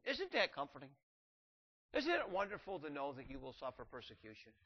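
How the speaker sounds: mock-cheerful irony; sarcastic. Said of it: "I'm being a little sarcastic".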